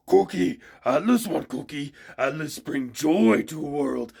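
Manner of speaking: put-on childlike muppet barbarian, loud and dim; Cookie Monster voice. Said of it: "we have one modeled after Cookie Monster".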